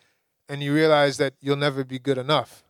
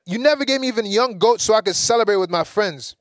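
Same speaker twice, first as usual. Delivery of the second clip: resentful complaint; 6 semitones higher, 3 dB louder than usual. Retold or imitated. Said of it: "talked like that to my father".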